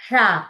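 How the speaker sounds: షా with tongue curled to mid-palate, mouth open; loud, isolated retroflex షా. Shown as a demonstration. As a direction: hold the mouth open right through షా. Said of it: "నోటిని అలాగే open గా ఉంచాలి".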